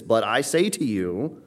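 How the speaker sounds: "But I say to you" slowed down for weight; slow, measured emphasis on "But I say to you"; emphatic. Retold or imitated. Preacher quoting Christ to the congregation, slowly emphatic on "But I say to you".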